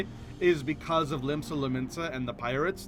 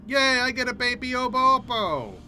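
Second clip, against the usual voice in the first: higher, gleeful squeal of a yay; playful cheer; 7 semitones higher, 5 dB louder than usual. Real, not acted. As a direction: celebrate like a delighted fan. Cheers at getting baby monkey.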